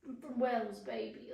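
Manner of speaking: lightly put-on Welsh accent, trailing to a whisper; mock Welsh accent. Swooning over British reality shows, mock Welsh accent. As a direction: imitate a Welsh reality-show contestant. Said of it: "like, reality British shows".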